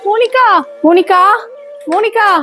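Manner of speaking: put-on anxious calling for a missing girl. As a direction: call across the car park to find her. Stepmother searching, calling girl.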